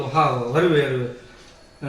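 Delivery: very slow, low drawn-out હરવે હરવે; lazy slow-motion mockery. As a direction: stretch it out, mimicking the slow crossing. Mimics slow road crossing.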